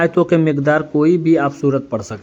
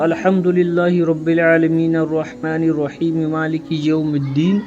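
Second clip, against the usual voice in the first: even, continuous Arabic recitation; Quran recitation. Shown as a demonstration. Teacher showing how to read Surah Fatiha, even recitation. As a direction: recite it as a model for learners. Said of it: "किस तरीके से पढ़ना अभी बता दे रहा हूँ".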